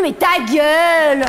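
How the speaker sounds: slow, drawn-out shut up; slow retort. Real, not acted. Comedian tells off the fake-agreeing friend, slow and drawn out. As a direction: drag out the insult to shut them up.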